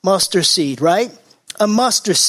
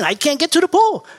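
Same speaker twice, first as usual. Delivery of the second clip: pleading sick man; 8 semitones higher than usual. Retold or imitated. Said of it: "he just kept saying".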